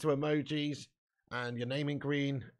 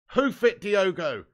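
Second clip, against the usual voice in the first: high, loud burst of urging; urgent yell; 4 semitones higher, 7 dB louder, slower than usual. Real, not acted. Fan urges Diogo to clear pinballing ball, urgent yell.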